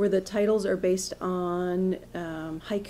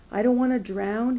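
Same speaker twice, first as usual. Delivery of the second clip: higher-pitched protest, lifted at the end; raised plea; 4 semitones higher than usual. Acted. Man pleads with woman at restaurant table, raised protest. Man's first plea in poem.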